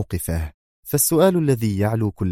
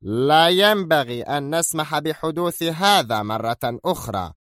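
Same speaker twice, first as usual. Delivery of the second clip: slow, stern cut-in, a touch angry; interrupting sternly, slow and heavy; stern anger; 7 semitones higher than usual. A narrator's reading. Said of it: "قاطعه زيلمان في صرامة غاضبة".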